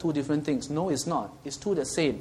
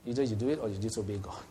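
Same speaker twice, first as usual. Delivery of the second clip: gentle; 3 semitones lower, 8 dB quieter than usual. Acted. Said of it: "In a gentle way lah".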